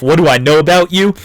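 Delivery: mock snarky rant; going off. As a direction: go off on the boss in a string of insults. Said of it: "So Anthony just went off".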